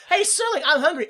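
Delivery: lightly acted high-pitched plea; wisher calling out. Stranded wisher telling Serling about hunger, calling out.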